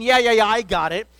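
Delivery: put-on seventeen-year-old waving off a lecture, dismissive; teen attitude. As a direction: brush the parent off with attitude. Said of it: "they get that attitude".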